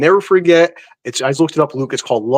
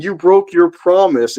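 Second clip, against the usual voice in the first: slow accusation, pitched a little higher; mild mock scream; 4 semitones higher, slower than usual. Fan describing the YouTube clip to co-hosts, mild mock scream. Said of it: "she's screaming".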